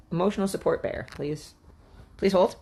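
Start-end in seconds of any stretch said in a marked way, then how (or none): none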